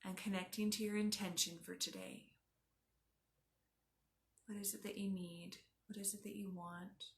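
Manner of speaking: unhurried yoga nidra guide; guided meditation. Acted. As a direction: guide them gently inward, leaving space after each instruction.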